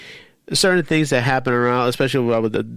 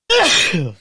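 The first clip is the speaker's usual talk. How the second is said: sudden sneeze into a cough; sneeze-cough from the dust; sneezing; 11 semitones higher, 3 dB louder than usual. Real, not acted. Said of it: "I just sneezed right now".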